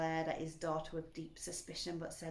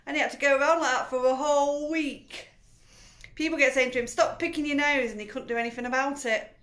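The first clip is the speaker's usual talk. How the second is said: put-on higher, loud eager storytelling girl; gleeful girl; 5 semitones higher, 10 dB louder than usual. A narrator's reading. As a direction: tell it with relish. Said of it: "said Matilda".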